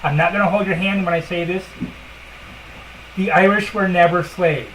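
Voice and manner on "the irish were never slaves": blunt and firm, no softening; harsh statement. Shown as a demonstration. Telling listeners the hard truth, a harsh blunt statement. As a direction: lay it down flatly, no hand-holding. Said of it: "harshly as possible".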